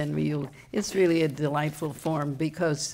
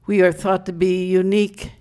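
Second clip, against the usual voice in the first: emphatic, measured verse reading; proud public declamation of comic verse; poem recital; 4 dB louder than usual. Acted. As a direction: recite it to the crowd, line by line. Reads comic verse to audience.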